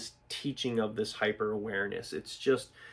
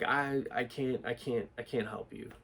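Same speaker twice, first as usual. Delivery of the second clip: stammering, softer refusal under adrenaline; mock a hesitant, faltering attempt; shaky; 4 dB quieter than usual. Instructor imitates an unpractised person on adrenaline, mildly shaky. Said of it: "you're all shaky".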